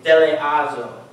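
"Deleazo" sounded out as deh-leh-AH-zo; careful pronunciation. Shown as a demonstration. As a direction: carefully pronounce "Deleazo" with stress on AH. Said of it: "trying to figure out how to pronounce these".

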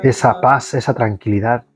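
leading prayer in a steady devotional voice. Acted. Prayer leader to livestream viewers, steady devotional voice. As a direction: pray it out for the faithful departed.

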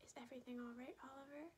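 calm mom voice. Acted. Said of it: "she whispered in her calmest, calm mom voice".

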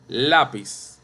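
Lápiz said LÁ-piz, falling at the end; stress on first syllable. Shown as a demonstration. Teacher repeating the example, Lápiz stressed LÁ-piz. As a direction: lean on LÁ in Lápiz. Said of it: "Penúltima sílaba".

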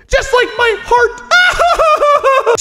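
high, very slow, stretched-out whine; mock heartbroken. Joking to viewers about his empty heart, a high drawn-out whine. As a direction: drag it out like a wounded joke.

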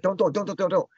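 mildly acted frantic protest; imitated panic. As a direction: rattle it off as if freaked out. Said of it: "he's freaked out".

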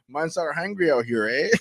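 mock Toronto street accent. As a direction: lightly put on a Toronto accent. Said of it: "He pulls out the Toronto man's accent".

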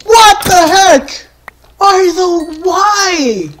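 high, incredulous whine; shocked dismay. Real, not acted. Player killed again, shocked dismay. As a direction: protest in high-pitched disbelief.

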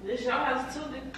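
breathy moaning while talking. Pretend. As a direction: moan through every word. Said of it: "why sound like you fucking talking weird".

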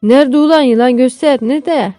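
put-on father firing urgent questions at his boy; urgent demand. Father urgently demands to see snake.

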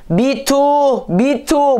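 mocking drawl. Mocking friend's refrain.

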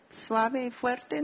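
slowly, each word set apart; slow and deliberate. Shown as a demonstration. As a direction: spell out "Suave y fuerte" for the class. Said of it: "La letra C". (lento y claro, como maestra)

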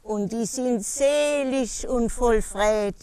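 lively Palatine dialect verse recital; poem recitation. Acted. Poet performing a comic dance poem for listeners, lively rhythmic recitation. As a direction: recite rhythmically, pausing between short phrases.

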